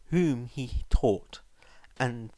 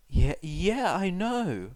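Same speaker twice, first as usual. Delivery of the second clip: put-on higher, louder boy's voice, caught out; sheepish admission; 7 semitones higher, 3 dB louder, slower than usual. A narrator's reading. Son admitting the truth to his mum, sheepish and high. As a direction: admit it guiltily. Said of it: "Izuku admitted".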